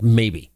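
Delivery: "maybe" set apart and punched; stress on maybe. Real, not acted. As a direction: say "maybe" slowly as one pointed, falling word. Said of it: "I'm gonna emphasize that word".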